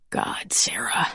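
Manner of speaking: hushed, unvoiced words; whisper. A narrator's reading. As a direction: whisper in shock and worry. Kneels by injured Sarah.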